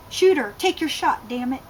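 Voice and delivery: a mild mock yell of a command, fading at the end; half-hearted barked order; screamed order. Colonel urging the soldier to shoot, mild mock yell. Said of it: "the colonel screamed".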